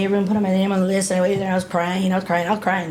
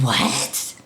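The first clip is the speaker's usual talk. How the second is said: shocked disbelief; 12 semitones lower, 4 dB quieter than usual. Retold or imitated. Accused of inciting a riot.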